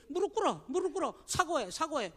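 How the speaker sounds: a petty person demanding an apology; mock demand. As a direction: lightly act a petty demand. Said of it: "실수를 막 어떻게 해서든지".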